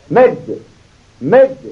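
long stretched vowel, held; drawn-out madd. Shown as a demonstration. Quran teacher drawing out the madd for students.

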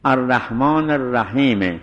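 الرحیم slow, with a short e after the m; pause on the vowel. Shown as a demonstration. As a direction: stretch الرحیم and stop on an added e. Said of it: "وقف به حرکته".

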